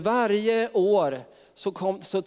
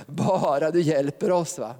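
mock desperate prayer; slower than usual. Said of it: "liksom, kompromisslöst".

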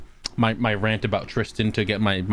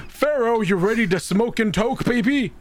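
stoner Pharaoh voice; 9 semitones higher than usual. Retold or imitated. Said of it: "He goes".

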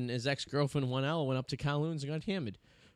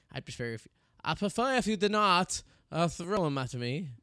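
put-on a lightly done, bumbling French Canadian accent; poor French Canadian accent; 3 semitones higher than usual. Retelling what the stripper said, in a poor French Canadian accent. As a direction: fake a French Canadian accent, not very well. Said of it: "as my poor French Canadian accent".

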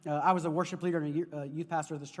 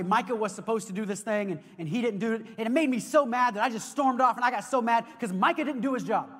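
mock angry rant; 3 semitones higher, 4 dB louder than usual. Preacher mimicking himself blaming Micah, mock angry. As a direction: act out blaming Micah, getting heated. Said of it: "If I say, if I say".

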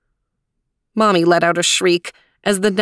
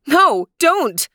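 mild mock yell; 9 semitones higher, 3 dB louder than usual. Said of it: "yelled Mommy".

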